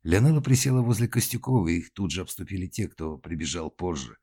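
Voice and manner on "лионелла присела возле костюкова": ordinary delivery, nothing marked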